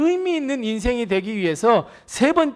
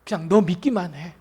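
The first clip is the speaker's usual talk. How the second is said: reassuring Jesus; 6 semitones lower, 6 dB quieter than usual. Acted. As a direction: hush his fear gently. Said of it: "예수님이 뭐라고 말씀하셨어요".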